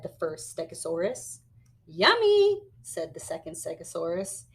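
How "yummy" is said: much higher "Yummy"; high delighted echo. Acted. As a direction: squeal it happily. Second dinosaur echoes higher.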